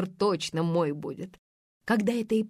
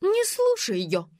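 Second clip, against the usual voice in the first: high, slow desperate shout; wife shouting at her husband not to listen, high and slow; 12 semitones higher, 3 dB louder, slower than usual. A narrator's reading. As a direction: Gulnar shouts to drown out Faina. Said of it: "закричала Гульнар".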